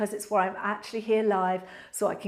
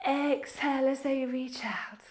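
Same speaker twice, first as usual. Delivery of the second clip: whispered cue; 2 semitones higher, 5 dB quieter than usual. Acted. Breathing cue during stretch.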